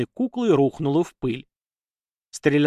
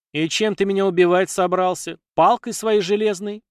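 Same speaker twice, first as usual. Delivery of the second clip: scornful mocking question, higher and louder; contemptuous snort; 7 semitones higher, 4 dB louder than usual. A narrator's reading. Warrior woman mocks the lad's gun with contempt. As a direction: sneer at his iron stick. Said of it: "презрительно фыркнула женщина".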